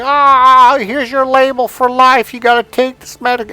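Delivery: very high, hammed-up doctor voice; mock doctor. Mock doctor handing down a label.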